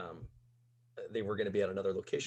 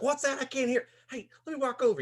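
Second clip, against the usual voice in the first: put-on much higher, sloppy drunk stranger; drunk guy voice; 6 dB louder than usual. Wasted stranger complimenting narrator's hat, high drunk voice. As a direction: play the wasted guy at the bar. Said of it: "He's like".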